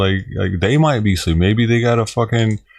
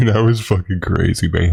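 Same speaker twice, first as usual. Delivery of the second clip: laughing; 4 semitones lower than usual. Real, not acted. Rerunning the line, then laughing.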